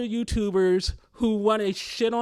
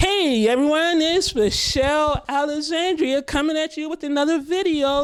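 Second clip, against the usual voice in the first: put-on, forced excitement, pitched up; 7 semitones higher, 4 dB louder than usual. Opening a new video and greeting everyone, with fake enthusiasm. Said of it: "fake enthusiasm I'm trying to exude".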